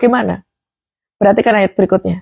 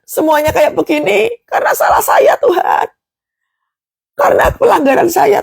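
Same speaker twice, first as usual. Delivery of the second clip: remorseful prayer; 6 semitones higher than usual. Acted. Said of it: "ada rasa penyesalan".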